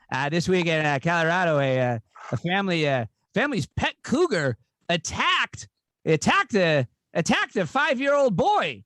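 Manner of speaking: mock anchor with big upward swoops on key words; halting, singsong joke telling, lightly imitated; Norm Macdonald. Comic retelling a second Weekend Update joke, light anchor impression. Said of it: "Here's the second one".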